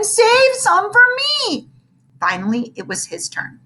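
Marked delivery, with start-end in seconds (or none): 0.0-1.7 high, slow wailing plea; crying plea. Acted. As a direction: beg through tears. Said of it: "Ham cried again and again".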